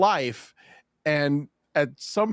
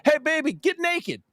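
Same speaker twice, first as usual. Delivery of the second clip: imitating a bad Black accent, higher; terrible put-on Black accent; 11 semitones higher than usual. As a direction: retell a host hamming up a bad Black accent. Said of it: "he's like".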